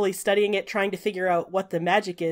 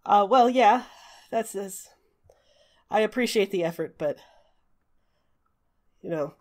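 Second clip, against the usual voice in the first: trying to compose himself. Acted. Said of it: "really obvious that he's been crying".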